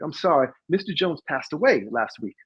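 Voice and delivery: imitated Southern receptionist; lightly drawled Southern woman's voice; retelling in a put-on Southern accent; thick Southern accent. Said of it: "she had a very thick Southern accent".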